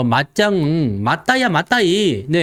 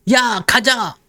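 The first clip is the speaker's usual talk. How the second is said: rallying crowd; 5 semitones higher than usual. Acted. Crowd rushing into stocks.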